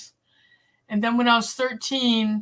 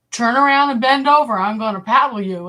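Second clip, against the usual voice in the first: imitated teacher's order; 2 semitones higher, 6 dB louder than usual. Teacher's threat acted out.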